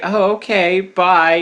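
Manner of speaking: mock Valley Girl sign-off; a touch of giddy Valley Girl; Valley Girl accent. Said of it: "it's like that Valley Girl accent too".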